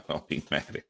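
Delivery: quiet, quick laughing plea; laughing softly. Real, not acted. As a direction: giggle it out under your breath. Repeats through laughter.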